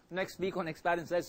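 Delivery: talking through a mouthful; words round a bite of food; mouth full. Real, not acted. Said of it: "sorry, I'm talking with my mouth full".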